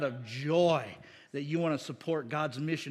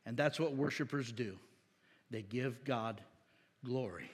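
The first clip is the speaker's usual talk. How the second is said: sincere and soft; 5 semitones lower, 4 dB quieter than usual. Real, not acted. Preacher to the congregation, quiet sincere emphasis. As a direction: lower and settle into the truth.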